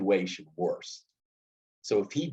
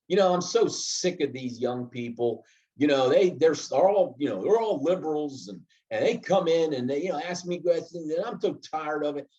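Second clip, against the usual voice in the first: a fairly light imitation of a fed-up, obstinate employee's complaint, rising higher partway through; obstinate grumbling; 4 semitones higher than usual. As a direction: grumble it like a stubborn worker sick of young people, but keep it understated. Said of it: "He could come in obstinate".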